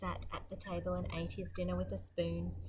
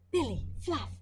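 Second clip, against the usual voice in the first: calling out; 6 semitones higher, 4 dB louder than usual. Acted. Neighbour calls out.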